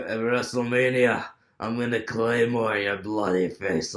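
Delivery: put-on a rough, amateur Scottish accent; a YouTuber attempting a Scottish accent. Drew's victory promo in a bad Scottish accent. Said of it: "my Scottish accent isn't gonna be the best".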